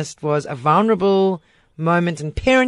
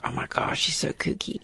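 mock whisper; 4 semitones lower, 8 dB quieter than usual. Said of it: "looked at me like".

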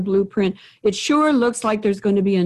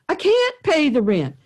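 victim voice; 5 semitones higher than usual. Retold or imitated. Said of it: "The victim says".

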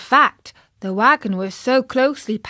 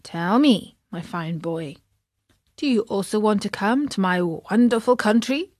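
ordinary delivery, nothing marked

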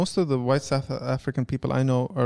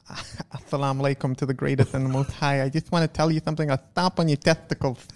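lightly voiced boxer impersonation; playful heavyweight boxer impression; Mike Tyson; 2 semitones lower, 3 dB quieter than usual. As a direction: do a hint of the famous boxer's voice. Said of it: "Okay, Mike Tyson".

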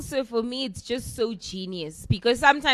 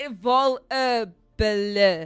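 put-on French accent; much slower than usual. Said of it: "There's no butcher".

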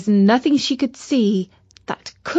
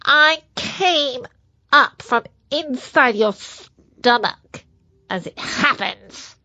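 cute germ voice; 3 semitones higher than usual. Acted. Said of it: "said the bug".

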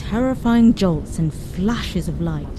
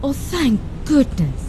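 relieved; 6 semitones higher than usual. A narrator's reading. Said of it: "replied Mum".

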